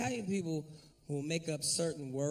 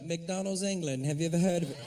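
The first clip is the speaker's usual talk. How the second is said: put-on English accent. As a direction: fake English accent, making it up. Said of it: "I just make shit up".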